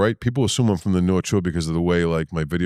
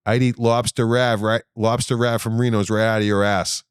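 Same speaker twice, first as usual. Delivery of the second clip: higher, slow and drawn-out quote; imitated brazen fan; 4 semitones higher, slower than usual. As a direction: play a woman brazenly announcing a catchphrase. Woman quoting his line in restaurant.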